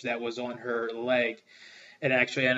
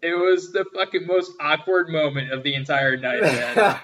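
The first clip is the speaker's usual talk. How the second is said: laughing; 2 semitones higher, 5 dB louder than usual. Real, not acted. Retelling his awkward racist gaffe.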